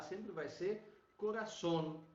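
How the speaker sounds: "coração" with the O kept tight and closed; showing students the right way. Shown as a demonstration. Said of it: "Bem fechadinho".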